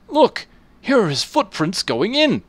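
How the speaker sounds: high, loud excited shout; excited blacksmith. Acted. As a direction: call out the discovery. Blacksmith spots footprints.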